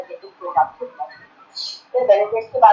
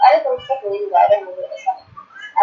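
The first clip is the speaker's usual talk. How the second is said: discouraging; 2 semitones lower than usual. Shown as a demonstration. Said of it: "Use positive language".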